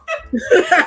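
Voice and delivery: high, loud laugh; real laugh at the punchline; burst of laughter. Real, not acted. Telling her friend the punchline, loud laughter.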